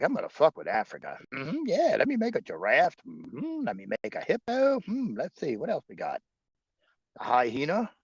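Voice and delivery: lightly voiced creator musing; God voice. Stoned creator inventing animals, lightly voiced. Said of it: "He's like".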